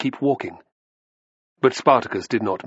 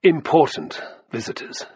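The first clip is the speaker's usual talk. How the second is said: "important visitors" set apart and higher, pointedly; special emphasis; 5 semitones higher than usual. A narrator's reading. Slave mocks the noble guests, stressing "important visitors". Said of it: "he laid special emphasis on the last words".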